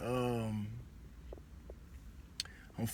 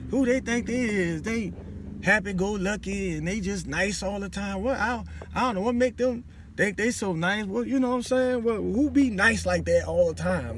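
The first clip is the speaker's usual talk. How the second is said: higher, scornful gossiping coworker; mocking coworker; 5 semitones higher than usual. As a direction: sneer at the nice new one, lightly. Coworker mocking the nice person.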